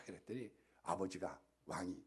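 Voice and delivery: "그랬더니"를 낮은 음에서 끝을 내려 말하기; "그랬더니"를 낮게 깔고 끝을 떨어뜨려; 낮게 떨어지는 그랬더니. Shown as a demonstration. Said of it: "narrative link said falling". ("그랬더니"를 낮은 음으로 끝을 내리며)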